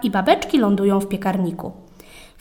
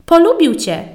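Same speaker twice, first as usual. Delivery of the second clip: delighted; 7 semitones higher, 5 dB louder than usual. Acted. Old man about kitten.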